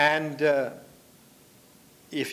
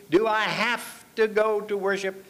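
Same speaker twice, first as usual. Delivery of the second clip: mild mock whine, higher pitched; slightly whiny, higher voice; whining child; 4 semitones higher than usual. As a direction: retell a child's whine, lightly done. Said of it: "they come whining to me".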